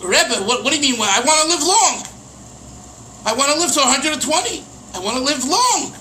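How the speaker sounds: lightly voiced indignant student; mock protest. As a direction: play the puzzled student objecting. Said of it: "you have to say to yourself".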